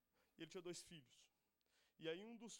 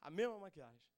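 indignant; 3 semitones lower, 11 dB louder than usual. Real, not acted. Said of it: "indignação com o preço".

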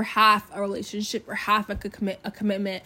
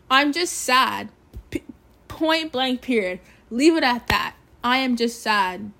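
firm insistence; 5 dB louder than usual. Real, not acted. Insisting on her sadness.

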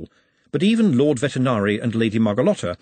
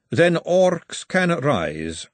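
Margalotta; 7 semitones higher, much slower than usual. A narrator's reading. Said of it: "said Margalotta".

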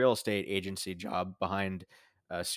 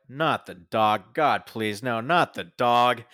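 pleading; 7 dB louder, slower than usual. Retold or imitated. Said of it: "I'm like, in my notes".

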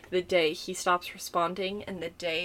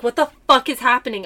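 irritated; 4 semitones higher, 8 dB louder, faster than usual. Retold or imitated. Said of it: "I was getting mad".

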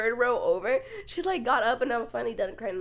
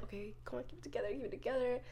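self pep talk; 3 semitones lower, 16 dB quieter, faster than usual. Retold or imitated. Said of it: "I'm like".

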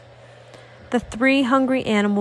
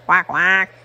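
duck moan; 3 semitones lower, 3 dB louder than usual. Acted. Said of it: "the duck moans".

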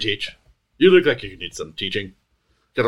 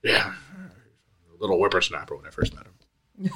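put-on old prospector; 5 semitones lower, 7 dB quieter, slower than usual. Old NPC recalling the past.

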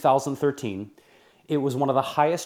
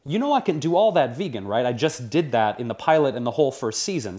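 semi-contentious. Retold or imitated. Host retelling his argument with network executives, mildly contentious. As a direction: argue back with restrained frustration. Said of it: "semi-contentious conversation with them".

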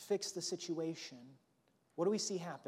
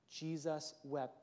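slow repeat; 4 dB quieter, slower than usual. Shown as a demonstration. Pastor repeating the verse, slow and weighty. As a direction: stretch each word. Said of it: "yet arguably one of the most powerful".

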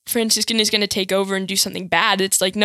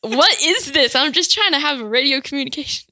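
raised, incredulous complaint; mock exasperation, pitched up; baffled exasperation; 4 semitones higher than usual. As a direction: retell it as if utterly baffled. Retold baffled reaction to accent.

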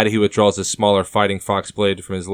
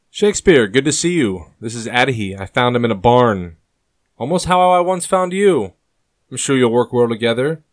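sarcastic; 4 semitones higher, 5 dB louder than usual. A narrator's reading. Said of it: "with sarcasm on his tongue".

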